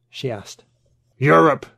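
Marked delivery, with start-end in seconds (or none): 1.2-1.7 put-on the old man sneers at Europe, with contempt; disgusted. A narrator's reading. Old patriot scorns Europe at dinner, disgusted. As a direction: spit the word out in disgust. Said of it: "he said with disgust".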